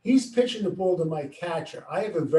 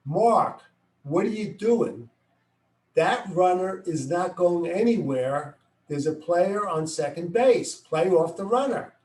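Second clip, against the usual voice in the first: slightly raised voice, calling to the fielder; a little louder. Retold or imitated. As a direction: call it out a bit louder. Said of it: "I say a little louder".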